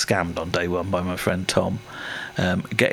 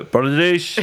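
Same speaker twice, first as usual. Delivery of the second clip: put-on Welsh-accented French phrase, said with a laugh; 6 semitones higher, 4 dB louder than usual. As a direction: say it like a Welsh local. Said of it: "In a Welsh accent".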